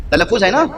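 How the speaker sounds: تلفظ as "ta-laf-fuz", offered as a check; pronouncing talaffuz. Shown as a demonstration. Speaker checking the word with listeners, تلفظ ending in "-fuz". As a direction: say تلفظ with a short u in the last syllable. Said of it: "صحیح تلفظ نہیں کر سکتے تھے".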